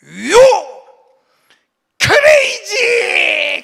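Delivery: loud, high yell; umpire's insult shout. Retold or imitated. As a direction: hurl it like an insult. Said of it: "두 번째 이래요".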